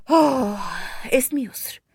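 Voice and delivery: hushed, secretive whisper; اسمي يسر whispered, unvoiced; whispered name. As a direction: whisper the name so no one hears. Hiding her real name.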